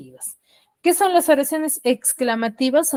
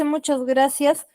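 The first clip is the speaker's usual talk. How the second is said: calm thanks; 3 semitones higher, slower than usual. Shown as a demonstration. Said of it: "así de sencillo, tranquilo".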